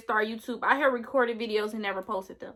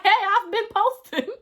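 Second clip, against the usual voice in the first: higher-pitched playful comeback; mock protest; 8 semitones higher than usual. Creator answering followers who missed her, playful high protest. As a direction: lightly act out a protesting reply. Acting out own reply.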